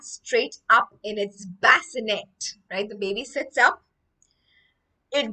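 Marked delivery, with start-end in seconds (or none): 5.1-5.3 loud, raised booming narration. A narrator's reading. Teacher reading of the baby's new voice, booming. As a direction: boom it out over the room. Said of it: "It boomed at me with its deep voice".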